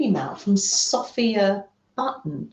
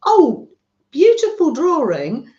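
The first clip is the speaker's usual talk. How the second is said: beautiful drawing said higher and louder, gushing; delighted gush; 5 semitones higher, 8 dB louder than usual. Real, not acted. Host gushing over a friend's zine drawing, delighted.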